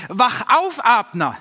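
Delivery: loud call up the mountain. A narrator's reading. David calls down to Abner from the hill, loud call. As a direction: call down across the valley to wake him. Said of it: "rief er zu Abner".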